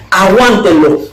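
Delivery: high, emphatic imitated order; retold urgent command. The woman tells them to hold him, imitated urgent command.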